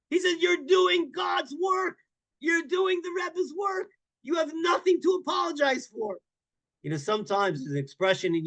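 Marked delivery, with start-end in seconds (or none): 0.4-6.2 much higher, slow, emphatic calls; impassioned praise. Retold or imitated. Hasidic guest telling the Chabad rabbi off, impassioned high slow shout. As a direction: declare it slowly like a rebuke.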